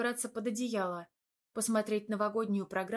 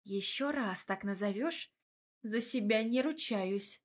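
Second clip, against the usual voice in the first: curt. Acted. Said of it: "отрезала я".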